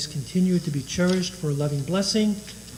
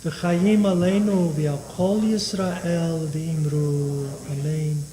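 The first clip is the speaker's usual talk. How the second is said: steady liturgical chanting of Kaddish; prayer recitation; slower than usual. Acted. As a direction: recite the Aramaic prayer evenly.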